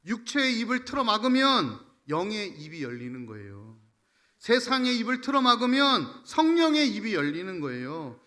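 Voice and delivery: loud, rhythmic sermon proclamation; impassioned preaching. Real, not acted. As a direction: drive each parallel clause home forcefully. Preaches at full force. (힘주어 선포하는 설교조)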